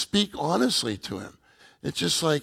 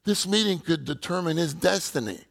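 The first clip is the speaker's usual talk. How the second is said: higher-pitched, urgent retold plea; desperate pleading; 5 semitones higher than usual. Praying brother urges the others for a new one, mildly desperate. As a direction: imitate a brother earnestly pleading for a newcomer. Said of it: "even in a desperate way".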